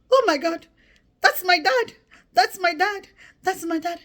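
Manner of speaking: high, loud gasping realisation; shocked recognition. Retold or imitated. Girl recognising her own father running in, high loud shock. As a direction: cry out as it dawns on you.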